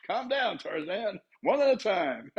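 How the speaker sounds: high, soft, amused; high amused seller. Pretend. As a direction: tell them to calm down, high. Seller calming eager buyers.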